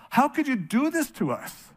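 Mary scolding Jesus after searching everywhere, exasperated; exasperated mother. Retold or imitated. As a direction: play the worried, frustrated mom. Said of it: "Mary's response".

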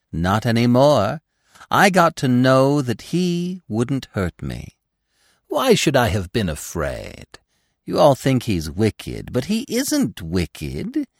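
put-on high, insistent young deer; lofty, animated conviction; Gobo, superior and devoted. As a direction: plead his hero's goodness with fervour.

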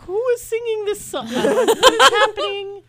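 surprised. Retold or imitated. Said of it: "I was just like".

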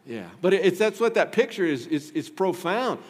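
ordinary delivery

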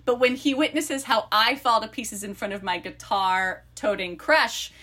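lively book-blurb read-aloud. Acted. Co-host reads friends the book blurb, lively read-aloud.

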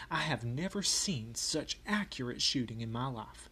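storytelling in a put-on Southern accent. Rebel private recalling picket duty by the river, Southern accent. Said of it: "I will read in my best Southern accent".

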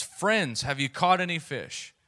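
light imitation of a hail across water; mild retold yell. Man on shore calls out to fishermen, mild yell. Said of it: "he yells out to them".

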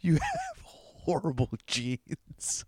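laughing. Real, not acted. Co-host teasing the rash sufferer, laughing. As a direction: break up laughing mid-sentence.

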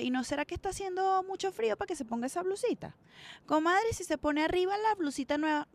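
hesitant, sweetly indirect comadre; roundabout hinting. Retold or imitated. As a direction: hedge around it as an indirect suggestion. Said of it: "si tú me hablas así".

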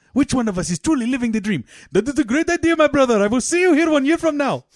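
high, fast, excited Afghan father; rousing Afghan-accented farewell, pitched high. Acted. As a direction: proclaim it in a hammed-up Afghan accent. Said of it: "Two families from Afghanistan".

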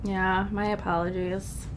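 stuffy nose from a cold; nasally voice. Real, not acted. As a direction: talk with a blocked nose. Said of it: "Sorry about my nasally voice".

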